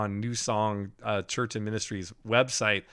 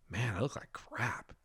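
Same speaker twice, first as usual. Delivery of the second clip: mock dismay; 12 dB quieter than usual. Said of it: "my first thought was".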